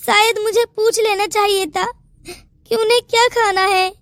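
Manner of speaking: teary, self-pitying complaint; tearful. Acted. Daughter-in-law playing victim to the aunt, tearful. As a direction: sniffle it out like a victim. Bahu crying before the aunt.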